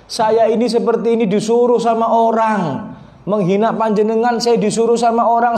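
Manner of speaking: mock-weeping apology, pitched high throughout; acted wail of remorse, little real sobbing; imitated tearful pleading. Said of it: "dia menyadari dan nangis".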